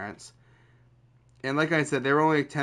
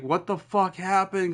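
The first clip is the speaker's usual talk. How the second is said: higher-pitched startled demand; mock freak-out; 6 semitones higher than usual. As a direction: imitate a shocked brother, pitch jumping up. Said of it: "he's freaking out".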